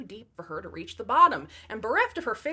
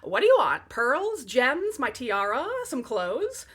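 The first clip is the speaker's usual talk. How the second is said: loud offer; 5 dB louder, slower than usual. Acted. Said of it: "she said".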